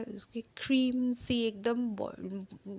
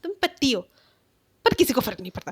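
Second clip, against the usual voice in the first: mock-dismissive, teasing a bit; lightly voiced careless jab; mother-in-law brushing off the husband, mildly annoying; 5 semitones higher, faster than usual. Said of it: "annoying tone में कहती".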